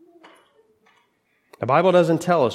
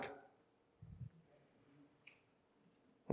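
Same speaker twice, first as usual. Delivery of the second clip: drawn out slowly; 32 dB quieter than usual. Shown as a demonstration. Preacher stretches a point.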